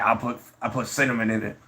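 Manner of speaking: lightly mimicked friend's voice; imitating his buddy. Buddy bragging about his French toast, lightly imitated voice. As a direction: put on a hint of the buddy's voice. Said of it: "that's what his voice sounds like".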